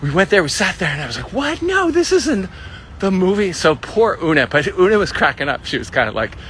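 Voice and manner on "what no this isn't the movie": high-pitched retold dismay; mock disbelief. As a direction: replay your baffled protest, pitched way up. Retells realizing it's the wrong film.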